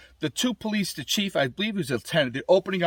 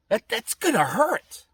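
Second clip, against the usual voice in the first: slow dread; 7 semitones higher, slower than usual. Pretend. Imagining the airbag blowing up in his face, slow wince. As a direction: slowly draw out gonna with a rising wince. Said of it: "And I used to think".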